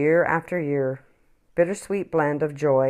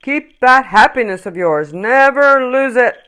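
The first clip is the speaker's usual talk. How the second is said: tree's parting plea; 8 semitones higher, 9 dB louder than usual. Acted. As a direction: urge him kindly as you leave. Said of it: "the tree called to Noel".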